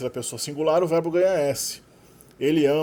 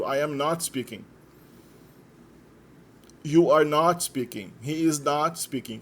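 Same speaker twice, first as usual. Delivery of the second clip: slow drill; slower than usual. Shown as a demonstration. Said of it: "progressivo presente negado".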